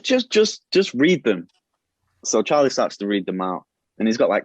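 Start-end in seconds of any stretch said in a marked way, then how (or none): 0.0-1.5 much higher, pushing voice; exasperated insistence. Retold or imitated. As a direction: jump way up in pitch, begging him to just read. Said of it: "He said".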